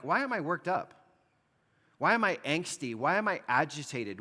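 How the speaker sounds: a touch of worked-up agitation; agitated. Shown as a demonstration. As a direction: sound stirred up and restless. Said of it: "the idea here is more like".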